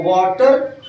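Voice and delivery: Indian वाटर with the R sounded; Indian accent. Shown as a demonstration. Teacher contrasts accents for students, वाटर in Indian accent. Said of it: "ये Indian हो गया".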